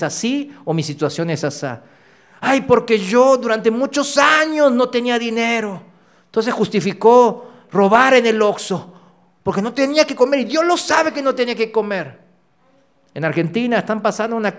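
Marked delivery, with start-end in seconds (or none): 2.4-12.2 higher, pleading self-justification; lightly voiced complaining justifier; whiny excuse. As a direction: plead your excuse like a petty thief.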